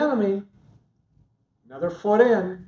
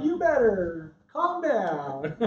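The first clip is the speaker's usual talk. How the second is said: laughing tease; 3 semitones higher, slower than usual. Real, not acted.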